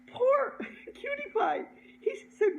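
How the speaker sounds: high, laughter-filled telling; laughing while talking. Real, not acted. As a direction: struggle to get it out through giggles. Still laughing at own story.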